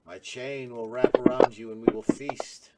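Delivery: flat, menacing scorpion monster; monotone monster voice. Acted. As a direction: threaten in a monotone drone. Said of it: "I can tell by your monotone voice".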